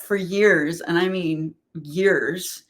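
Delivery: "years" drawn out slowly both times; slow, lengthened "years", repeated for weight; stress on years. Real, not acted. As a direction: stretch out the word "years" for emphasis. Emphasizing how long it lasted.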